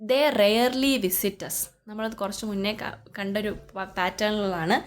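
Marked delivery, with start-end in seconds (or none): 0.1-1.7 slow reading. Shown as a demonstration. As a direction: read out word by word, very slowly. Teacher reads question aloud slowly. (പതുക്കെ ചോദ്യം വായിച്ച്)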